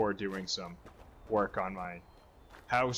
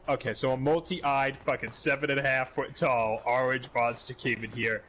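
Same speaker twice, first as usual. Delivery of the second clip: sarcastic disbelief. Retold or imitated. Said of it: "And I'm like".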